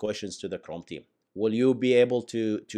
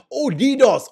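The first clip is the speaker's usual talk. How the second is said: surprised; 11 semitones higher, 7 dB louder than usual. Real, not acted. Realizes he misread the term.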